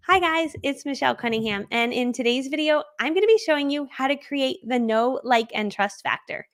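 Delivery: put-on presenter voice, pitched a little up; mock professional "nice voice". Shown as a demonstration. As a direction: demonstrate an overly polite, professional video intro. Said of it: "I was more professional, and I would say things like this".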